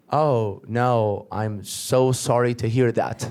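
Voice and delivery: slow, mock-sincere condolence; pitying sympathy. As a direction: offer slow, drawn-out sympathy. Addict pities the aspiring comedian.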